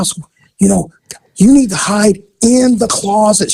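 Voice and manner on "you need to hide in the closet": mildly forceful retold child's order; insist, a touch higher, as a bossy kid; forceful little girl. Little girl orders Daddy into the closet, forceful. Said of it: "She was real forceful".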